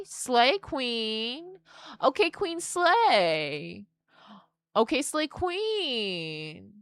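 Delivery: slow, rising sassy praise; sassy hype. Real, not acted. Praising a card character, slow sassy hype. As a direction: hype her up like a diva.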